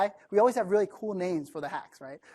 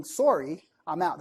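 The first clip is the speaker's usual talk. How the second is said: lightly imitated Canadian accent, polite apology; a hint of Canadian on a rounded "Sorry"; Robert's Canadian accent; slower than usual. Investor too nice to turn down a pitch, light Canadian accent. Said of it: "That's his accent".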